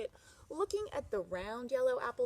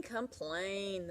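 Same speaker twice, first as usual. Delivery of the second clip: grumbling. Acted. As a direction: let the repeat sink down grumpily. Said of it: "the man grumbled".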